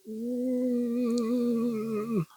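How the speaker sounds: long, high, soft hum holding in a laugh; high, drawn-out closed-mouth squeal; stifled laughing hum. Real, not acted. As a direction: hum through suppressed giggles. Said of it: "I'm trying not to laugh".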